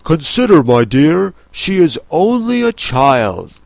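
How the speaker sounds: lightly voiced timid appeal; mildly timid. A narrator's reading. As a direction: plead with a touch of timidity. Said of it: "timidly said".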